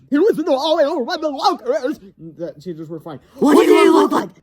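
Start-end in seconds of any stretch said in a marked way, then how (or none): 0.1-2.0 put-on much higher, louder boy; hammed-up ghost report; breathless kid voice. 3.4-4.4 put-on much higher, louder girls; eager curious girls; cheerleaders asking. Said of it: "they asked".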